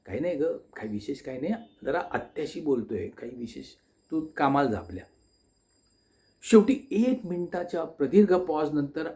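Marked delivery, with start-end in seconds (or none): 0.1-5.0 hushed brush-off. Retold or imitated.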